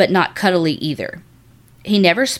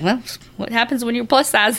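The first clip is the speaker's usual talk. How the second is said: sassy retort; 5 semitones higher than usual. Retold or imitated. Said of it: "I'd be like".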